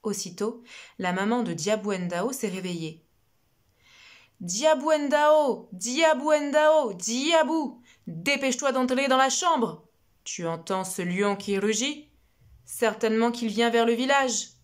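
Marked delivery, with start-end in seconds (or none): 4.4-14.5 mother calling urgently. Acted. Mother calling her daughter inside from the lion, loud and urgent. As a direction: call her in from the yard, stretching the name.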